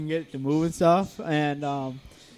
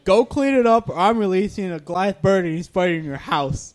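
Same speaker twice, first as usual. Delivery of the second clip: mock boss order; 3 semitones higher, 4 dB louder than usual. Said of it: "He's like".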